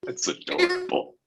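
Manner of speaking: squeaky chipmunk laugh; helium voice. Real, not acted. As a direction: laugh like a sped-up cartoon chipmunk. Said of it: "You sound, you sound like a chipmunk".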